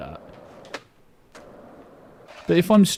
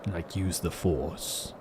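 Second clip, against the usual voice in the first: much lower, softer, slow villain rasp; Darth Sidious; 7 semitones lower, 11 dB quieter, slower than usual. Pretend. Streamer showing his cold voice, low rasping Sith. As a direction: croak it like an old Sith lord. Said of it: "sound like Darth Sidious".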